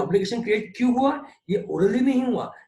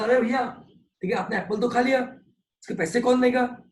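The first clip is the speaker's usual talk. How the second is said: higher, louder call after a customer; shouting after him; 5 semitones higher, 4 dB louder than usual. Retold or imitated. Apple seller yelling at a customer who didn't pay, loud and high. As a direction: hail a customer walking off without paying. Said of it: "मुझे चिल्ला के बोला".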